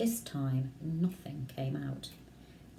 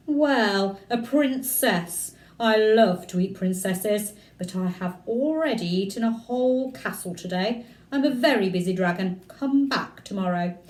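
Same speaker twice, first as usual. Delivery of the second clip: a hint of a lazy, pleased dragon; 2 semitones higher, 6 dB louder than usual. Dragon brushing off the princess at his door, lightly voiced dragon. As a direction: play the dragon smug and busy. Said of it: "the dragon ... said".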